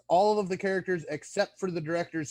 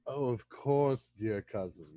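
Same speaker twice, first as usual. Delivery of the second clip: snide tone; 3 semitones lower than usual. Acted. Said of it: "what's with the tone or insi-, insinuation there".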